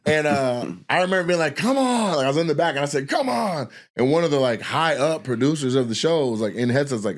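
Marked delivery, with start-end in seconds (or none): 1.6-2.1 high-pitched drawn-out holler; retold urging call. Writer urging the host from backstage, high calling out. 3.1-3.7 high-pitched drawn-out holler; retold urging call. Writer urging the host from backstage, high calling out.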